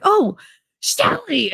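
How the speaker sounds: high, drawn-out tipsy greeting; drunk Nick. Retold or imitated. Streamer imitates drunk Nick greeting her by name, high. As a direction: croon it like a drunk friend. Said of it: "he sits up and he was like".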